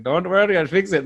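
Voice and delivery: Apu. Retold or imitated. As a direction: reassure in a hammed-up Indian accent. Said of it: "I would do the Apu".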